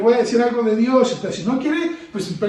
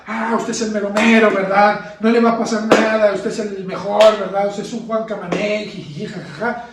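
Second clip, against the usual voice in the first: flattering voice; 3 dB louder than usual. Pretend. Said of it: "cosas halagüeñas".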